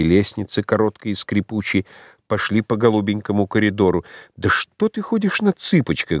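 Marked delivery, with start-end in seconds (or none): 4.4-6.2 high-pitched amused teasing; laughing. A narrator's reading. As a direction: lift it high, as if laughing at him. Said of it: "громко рассмеялась". (высоко, насмешливо, будто смеясь)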